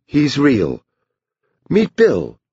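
high-pitched, exasperated mother; irritable. A narrator's reading. Mother introduces the imaginary brother to the doctor, irritable. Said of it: "Bonnie said irritably".

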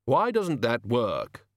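slow, heavy and puzzled. Acted. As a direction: ponder it slowly and heavily. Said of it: "in a puzzled, heavy voice".

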